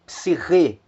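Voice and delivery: "psirrê" with the final "rê" stressed; Greek stress demo. Shown as a demonstration. Teacher repeating the word for students, stress on the last syllable. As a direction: lean on the end of "psirrê". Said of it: "a sílaba que soa mais forte é a última".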